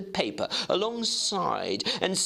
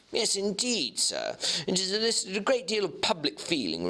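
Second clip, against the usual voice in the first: higher, brisk eager clerk; clerk Guest; 6 semitones higher than usual. Acted. Clerk Guest answering the lawyer, in a higher eager voice. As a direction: pipe up politely as a keen young clerk.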